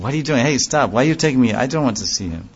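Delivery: mildly indignant, pushing the other away; mock objection, lightly acted; contrary protest. Devotee feigning reluctance to see Krishna, contrary. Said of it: "contrary mood".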